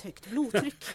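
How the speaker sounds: laughing out the words in disbelief; slow, amused echo through laughter. Acted. Mayor laughing at the absurd rumour, laughing disbelief.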